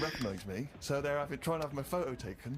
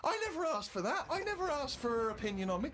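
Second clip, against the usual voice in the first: indignant rant; 10 semitones higher, 5 dB louder than usual. Real, not acted. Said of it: "by now I was just furious".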